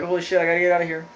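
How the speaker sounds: quick, lightly panicked retelling; mock panic. Joey hanging out of the window, mock panicking. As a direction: rush it like a mock escape.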